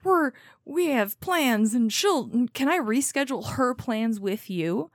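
hammed-up pushy bro; random bro. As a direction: bust in like a cocky bro. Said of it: "this random bro shows up and is like".

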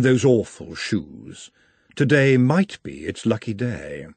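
slow, measured musing as Madame; a hint of Madame, thoughtful; lightly voiced Madame. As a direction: muse slowly in Madame's voice, a little put on.

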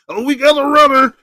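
high, loud, mocking medic voice; amused medic. Staff spotting him escape, high and loud. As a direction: play the medic catching a runner.

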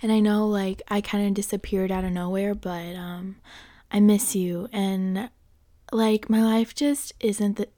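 lightly voiced sly ex, soft and hesitant; a hint of a toxic ex, coaxing; ex trying to win you back. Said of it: "Do I sound like your ex trying to get back with you yet?".

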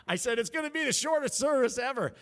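high, loud exclamation; real, high-pitched outburst; exclaimed joke. Real, not acted. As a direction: shout it high over your own laughter. Joking after overrunning, crowd laughing.

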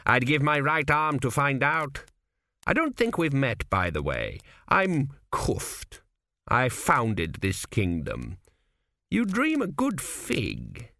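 put-on a sly old man in a dream, unhurried; a hint of a wry old founder; old ancestor Kuft.

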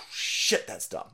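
a bored bodyguard grumbling under his breath; bodyguard aside. Retold or imitated. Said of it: "Secret Service dude in the back is like".

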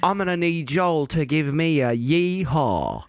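slow drawn-out MC call; DJ hype voice. Retold or imitated. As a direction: hype the crowd like a country DJ. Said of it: "And then he goes".

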